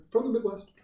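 high-pitched mock Midwest accent. Mimicking a photogenic young woman from the Midwest, exaggerated Midwest accent. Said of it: "then you hear her voice".

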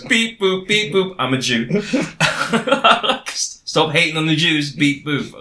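beepy metal box robot. Retold or imitated. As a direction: say it like a clunky toy robot. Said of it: "a metal box man who goes".

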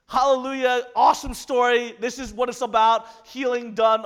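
loud, bright hallelujah burst; joyful praise. Real, not acted. Preacher celebrating the woman's healing, loud and joyful. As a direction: shout the praise to the room.

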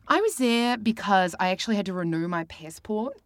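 casual put-on New Zealand accent. Shown as a demonstration. Guest answering about her last trip, in a New Zealand accent. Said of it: "I can do a New Zealand accent".

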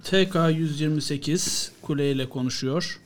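slow, soft cockpit radio call; pilot over the radio. Pretend. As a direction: answer the tower, slowly.

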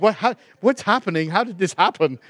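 mock baffled questions, tumbling out; bewildered. Acts out own bewilderment at tears.

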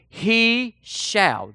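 HE and SHALL each drawn out; emphatic declaration. Shown as a demonstration. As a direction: land separately on "He" and "shall". Hammering home the scripture word.

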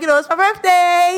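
high, sing-song coaxing; retold angling for a favor; ingratiating hint. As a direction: drop the hint sweetly. Angling for an upgrade.

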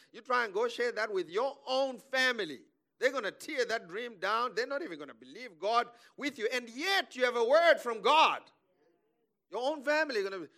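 high, loud warning building in force; impassioned preaching. Real, not acted. Preacher warns congregation about family's doubt, impassioned and loud. Preacher exhorts against sharing big dreams.

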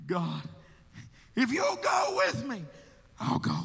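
pleading prayer. Retold or imitated. Quoted prayer of surrender to God.

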